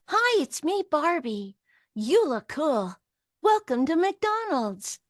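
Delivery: high, slow, sweet doll voice; a little girl's best-friend doll, pitched high and drawn out; Barbie. Acted. Doll greets kids at McDonald's, high sweet doll voice. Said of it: "How did I sound when I wanted to play with her".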